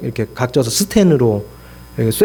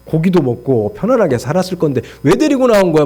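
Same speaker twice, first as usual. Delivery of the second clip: retold grumble with a raised pitch; mock grumbling; 2 semitones higher than usual. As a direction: imitate a crowd griping at their leader. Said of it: "막 불평불만해".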